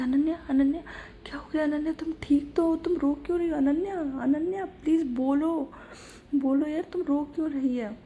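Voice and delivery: panicky, pleading to know what's wrong; anxious worry. Acted. Pooja finds Ananya crying, anxiously begs her to speak. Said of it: "तो वो एकदम से घबरा जाती है".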